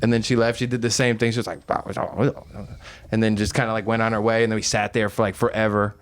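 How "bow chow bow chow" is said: put-on Chinese accent. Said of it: "like, Chinese accent".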